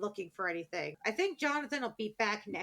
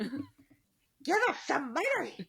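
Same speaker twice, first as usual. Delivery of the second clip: laughing plea; 6 semitones higher, much slower than usual. Real, not acted.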